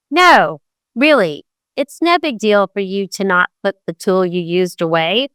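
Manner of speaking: sarcasm that hides real annoyance; sarcastic. Retold or imitated. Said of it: "using sarcasm and tone".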